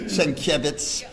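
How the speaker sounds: "Senkiewicz" said SEN-keh-bits; demonstrated pronunciation. Shown as a demonstration. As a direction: show how "Senkiewicz" might sound, SEN-keh-vits. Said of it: "That's the way you might pronounce".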